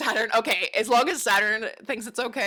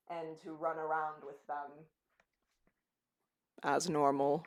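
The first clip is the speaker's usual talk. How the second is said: David Attenborough; 4 semitones lower than usual. Acted. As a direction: narrate animals at play, lower and unhurried. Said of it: "David Attenborough".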